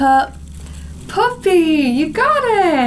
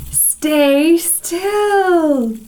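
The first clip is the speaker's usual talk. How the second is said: lightly voiced kitten, higher pitch; kitten's command; 5 semitones higher than usual. Kitten telling the mouse to hold on, a drawn-out command. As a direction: draw it out for small listeners.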